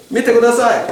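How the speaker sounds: lifted, courteous please; polite request. Shown as a demonstration. Teacher demoing the polite form to students. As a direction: ask nicely, rising and bright. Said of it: "Agora, você chega".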